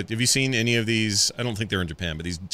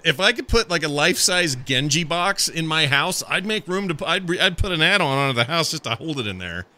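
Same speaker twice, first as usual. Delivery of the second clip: ordinary talk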